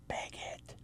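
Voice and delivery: bigot breathed out in a whisper; stage whisper. Shown as a demonstration. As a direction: whisper the word bigot for effect. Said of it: "emphasis being on that last word".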